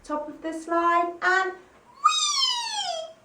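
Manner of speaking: high, slow rising whee down the slide; high thrilled whee. Shown as a demonstration. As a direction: sail down the slide with glee. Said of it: "Once more time".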